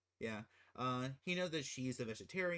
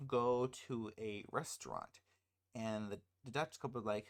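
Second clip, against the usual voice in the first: ordinary talk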